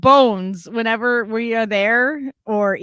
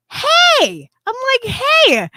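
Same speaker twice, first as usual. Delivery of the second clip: high, louder retold call; 14 semitones higher, 5 dB louder, slower than usual. Retelling calling to the friend on the phone, high call. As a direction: call out to get his attention.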